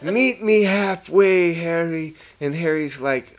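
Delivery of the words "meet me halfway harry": mock coaxing. Acting out the coaxing.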